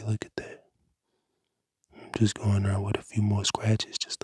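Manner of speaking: ASMR whisper. Acted. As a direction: breathe the words like an ASMR cleaning video. Whispered ASMR cleaning tutorial.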